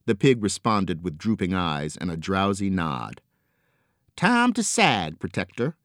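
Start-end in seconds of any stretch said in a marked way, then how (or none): 4.2-5.8 chuckling. A narrator's reading. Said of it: "chuckled Angel".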